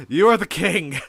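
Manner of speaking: high, loud taunt; mocking shout. A narrator's reading. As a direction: hurl the title at them. Mad claim to the throne.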